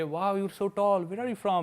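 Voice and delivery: slow, drawn-out put-on British English; British accent, stretched out and slow; imitating British accent. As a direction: mimic a British woman's accent, slowly. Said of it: "British accent में बोली".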